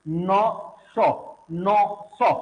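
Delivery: नौ and सौ said evenly in turn, tongue near the gum ridge; alveolar sounds. Shown as a demonstration. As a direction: alternate नौ, सौ to show one tongue position. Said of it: "हम अगर एक साथ बोलेंगे".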